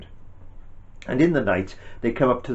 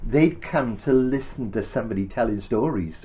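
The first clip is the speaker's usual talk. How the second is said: ordinary talk, nothing marked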